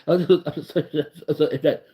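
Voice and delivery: halting uh-uh-say stammer, lightly voiced; mock stammering Lamar Jackson. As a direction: stumble over every word like a shy quarterback. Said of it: "He just be like".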